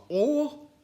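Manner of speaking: very high, loud scratchy threat; threatening or. Acted. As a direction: cut it off with menace. Swamp threatening.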